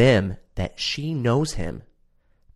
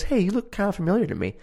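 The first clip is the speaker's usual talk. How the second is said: mimicking; 11 semitones higher, faster than usual. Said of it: "She goes".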